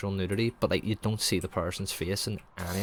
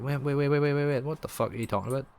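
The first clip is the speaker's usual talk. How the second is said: high-pitched, startled string of waits; imitating a baffled objection; mock alarmed protest; 6 semitones higher than usual. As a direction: play a guy hastily halting someone, in disbelief. Acting out a man protesting being left.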